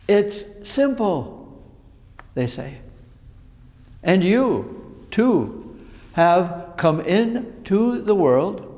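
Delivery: slow, measured poetry reading with long pauses; poem recitation. Acted. Preacher reading Mary Oliver's poem to the congregation, slow recitation. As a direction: recite it slowly, lifting the key phrases and letting each line hang.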